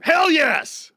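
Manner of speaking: a sudden delighted shout of approval; excited cheer. Real, not acted. Host cheering his cohost for agreeing, excited whoop.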